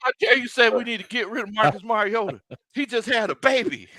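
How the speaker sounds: high, indignant mimicry of outraged fans; mock indignant fan. Mocking outraged fans to his cohost, high and indignant. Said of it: "people were like".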